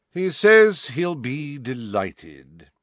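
slow, bored drawl. Acted. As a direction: deliver the reply with total indifference. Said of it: "said a bored voice behind Dumbledore".

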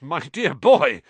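patronizing. Acted. Lockhart patronizing Harry.

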